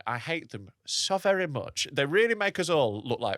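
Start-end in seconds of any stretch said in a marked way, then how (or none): 0.1-1.9 put-on Polish accent. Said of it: "I was doing my Polish accent".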